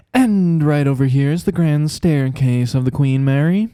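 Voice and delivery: lightly voiced flamboyant tour guide; a hint of the tour guide's showy patter; mild tour guide voice; tour guide impression. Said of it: "I'll do an impression of him".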